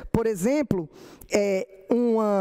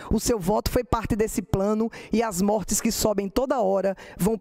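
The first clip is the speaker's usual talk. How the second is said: rhythmic verse recital; poem recital. Acted. Poet reciting pandemic stanzas to her audience, rhythmic recital. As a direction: keep the ten-foot cadence going.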